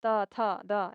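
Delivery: त, थ, द said softly and slowly, with the tongue at the teeth; soft dental sounds. Shown as a demonstration. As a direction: ease out त, थ, द gently. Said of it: "हल्के से निकलता है, कोमलता से". (त, थ, द कोमल दन्त्य उच्चारण)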